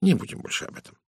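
mildly placating; soothing, understated dismissal; conciliatory. Acted. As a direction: gently close the subject. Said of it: "примирительно сказал Пуаро".

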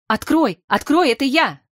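pleading shout, somewhat held back; muffled cry. A narrator's reading. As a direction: cry out to be let in. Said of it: "раздался приглушённый крик".

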